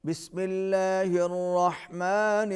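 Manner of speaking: slow, measured tajweed chant; teacher modelling a recitation; Quran recitation. Shown as a demonstration. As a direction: recite it slowly for the pupil to copy. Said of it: "teacher models verse".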